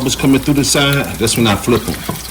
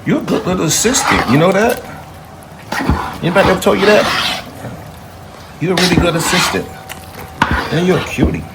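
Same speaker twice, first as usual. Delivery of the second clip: sweet praise; 5 semitones higher than usual. Real, not acted. Praising a cute little helper.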